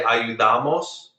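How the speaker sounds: ayudamos stressed on DA, a-yu-DA-mos; second-to-last stress. Shown as a demonstration. Teacher checking students hear ayudamos stressed on DA. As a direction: lean on the DA of ayudamos. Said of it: "Do you hear how I say".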